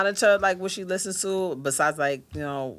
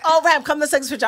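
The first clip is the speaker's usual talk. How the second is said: imitating her friend; 10 semitones higher, 6 dB louder, much faster than usual. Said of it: "she's like".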